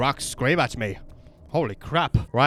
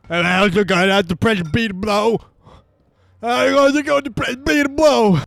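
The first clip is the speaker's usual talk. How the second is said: higher, louder mock voice; high meme voice; 8 semitones higher, 6 dB louder than usual. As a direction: blurt the meme line. Quoting a meme.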